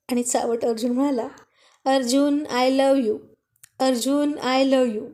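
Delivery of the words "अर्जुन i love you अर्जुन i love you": teasing mock yell of a love confession; mock drunken shouting. Husband teasing wife, imitating her drunken party shouting. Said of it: "अशी खूप मोठ्याने ओरडत होतीस तू".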